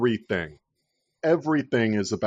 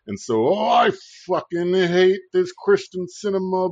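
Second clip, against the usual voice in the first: mocking libs; 4 semitones higher than usual. Podcaster parodies liberals fuming at Sinema, high and whiny. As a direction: ham up a teary outraged liberal. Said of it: "the fucking libs have to be like".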